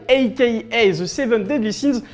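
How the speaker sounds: a hammed-up English accent on "A K A The Seven Deadly Sins"; light put-on English accent; mock English accent. Shown as a demonstration. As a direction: show off a jokey English accent. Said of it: "vous avez vu mon super accent anglais".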